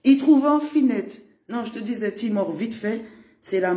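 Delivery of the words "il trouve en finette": slow emphatic. Shown as a demonstration. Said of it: "repeats the phrase louder".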